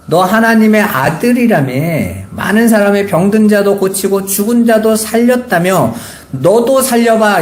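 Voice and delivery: mock challenge, slowing on the last words; mild mocking. Mockers taunting Jesus on the cross, mildly jeering. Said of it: "예수님을 조롱하는 자들이".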